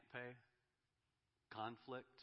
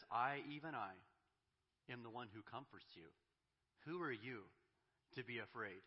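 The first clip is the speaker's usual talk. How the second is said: a touch of God's confronting voice, louder on the opening I; firm challenge put to the frightened; confrontational tone; 4 dB louder than usual. Retold or imitated. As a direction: pastor voicing God as he confronts the exiles' fear. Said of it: "his tone changes dramatically".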